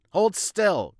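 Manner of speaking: sharp high shout; shouted order. Acted. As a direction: bark the order loudly. Shouting at patient.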